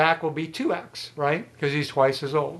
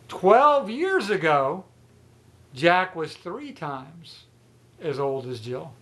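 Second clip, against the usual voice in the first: slow dictation; slower than usual. Shown as a demonstration. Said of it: "teacher stating the riddle slowly".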